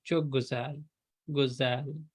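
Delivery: गुजाल said softly, with the vowel moving toward aa; soft गुजाल leaning toward guzaal; teacher softly modelling गुजाल; quiet güzel demo. Shown as a demonstration. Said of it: "आवाज़ गुजाल के करीब".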